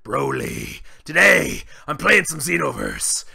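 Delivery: gruff Saiyan brute hosting his channel; Broly voice. Pretend. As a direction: play Broly as a proud brute greeting fans. Broly character voice throughout.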